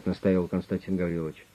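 usual speaking voice

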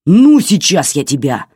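loud threatening outburst. A narrator's reading. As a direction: threaten the dog, raising a hand. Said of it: "замахнулся Максим". (громкая угроза псу)

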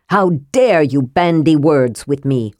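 understated fury of a dead prince; flaring anger. Acted. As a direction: slap him down for his insolence. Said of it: "His anger flared".

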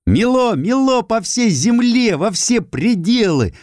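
high, slow ringing recital; ringing shout. Acted. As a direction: call out the verse, clear and bright. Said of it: "звонко выкрикнула вдруг девочка". (звонко выкрикнуто)

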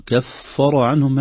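كفر عنهم, very drawn out; slow recitation. Shown as a demonstration. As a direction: read كفر عنهم slowly. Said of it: "وليست كف".

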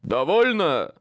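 loud barked command. A narrator's reading. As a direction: bark it like an order. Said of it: "рявкнул он".

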